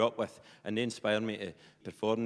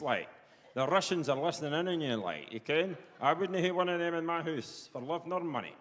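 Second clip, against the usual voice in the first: higher-pitched, suspicious Perthshire farmer; Willie; 5 semitones higher than usual. Retold or imitated. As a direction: warn them in broad Perthshire that they're being bugged. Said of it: "He says".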